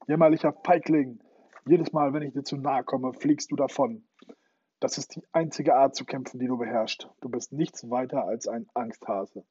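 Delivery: furious roar. Acted. Hook rages at Peter in the fight, a loud furious taunt. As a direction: hurl the insults in blind fury. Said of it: "dass der Pirat wutentbrannt brüllte".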